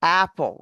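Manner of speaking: "Apple" modelled with a wide-open A; open A vowel. Shown as a demonstration. Teacher modelling for the student to repeat, open-mouthed "Apple". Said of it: "Open your mouth".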